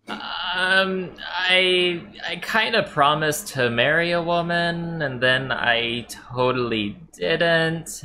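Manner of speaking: high, slow, drawn-out plea; a trapped man begging, slow and high; high pleading man. Acted. Trapped man pleads his story.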